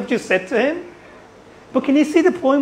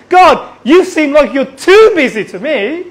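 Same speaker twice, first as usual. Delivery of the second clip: raised, emphatic challenge to God; blunt honest complaint; 4 semitones higher, 5 dB louder than usual. Acted. A believer honestly tells God he seems too busy, bluntly. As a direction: say it straight out, higher and forceful. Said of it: "Just tell him".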